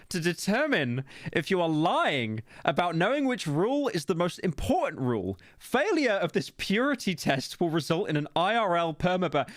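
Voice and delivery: a hint of Hannibal Lecter menace; creepy reading voice. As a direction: read it like a sinister villain. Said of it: "that was way too Hannibal Lecter".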